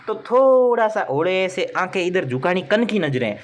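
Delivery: drawn-out, mock-furtive tip; sly aside. Teacher coaching students to sneak a glance at English, sly aside. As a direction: stretch it slowly, like coaching a sneaky peek.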